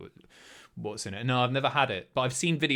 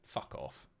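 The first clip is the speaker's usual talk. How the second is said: whispered disbelief; 14 dB quieter than usual. Real, not acted. Reacts in disbelief to chat.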